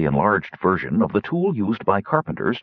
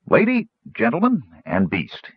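gnome voice; 2 semitones higher than usual. Acted. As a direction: announce it grandly, a small gnome. Gnome formally addresses audience.

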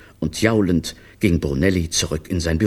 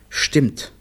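voiceless, sighed admission; sad; 7 semitones higher than usual. A narrator's reading. Downcast clown confirming the children's story, sad and voiceless. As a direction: let it out sadly on little voice. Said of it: "nickte traurig".

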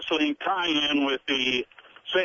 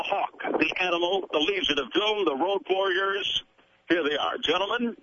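hint of a ring announcer; wrestling announcer. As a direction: build it up like a wrestling intro. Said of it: "in your best wrestling announcer voice".

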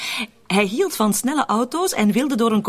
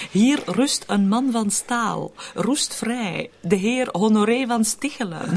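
mock epitaph; 3 semitones higher, slower than usual. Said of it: "wat dacht je van dit grafschrift".

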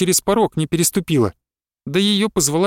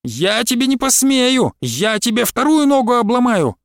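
slow, high furious threat; angry threat; 7 semitones higher than usual. A narrator's reading. Quarrel, Vasilisa threatens.

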